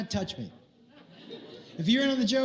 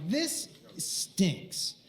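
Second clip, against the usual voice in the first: whispered; 5 dB quieter than usual. Retold or imitated. Suspicious aside to himself.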